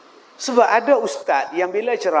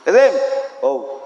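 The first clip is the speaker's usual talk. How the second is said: curt reply; 5 dB louder than usual. Retold or imitated. Mock curt answer when called.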